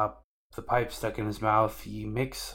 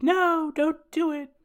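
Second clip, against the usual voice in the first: shrill-high, louder cry of no; imitated girl pleading, much higher; desperate plea; 6 dB louder than usual. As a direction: throw yourself in front of the guns and beg. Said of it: "and she's like".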